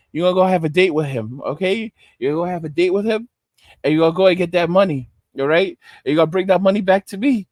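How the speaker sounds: low, fast pimp giving orders. Acted. The streets sending the girl for money, low pimp orders. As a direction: rattle off instructions, low and controlling. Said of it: "the streets is a pimp".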